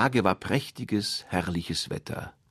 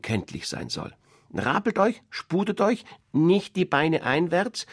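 instructing mother duck; 6 semitones higher than usual. Acted. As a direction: drill the ducklings in manners.

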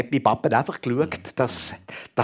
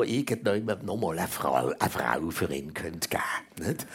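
whispered aside; 5 semitones lower, 7 dB quieter than usual. Real, not acted. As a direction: drop to a whisper for the secret. Confiding aside in family story.

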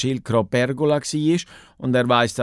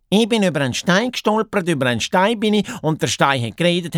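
high, fast, breathless-sounding blurting; excited hare; 7 semitones higher, faster than usual. Acted. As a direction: blurt out the news in a higher voice. (ufgregte Haas)

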